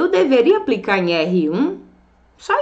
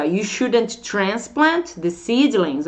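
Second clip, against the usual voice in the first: slow model sentence, "transplant" stressed; "transplant" stressed and drawn out; strong stress; slower than usual. Shown as a demonstration. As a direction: lean on "transplant". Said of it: "aqui que tá a entonação forte".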